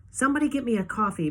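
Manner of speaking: a tired doctor asking for coffee. A narrator's reading. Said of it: "sighs and says".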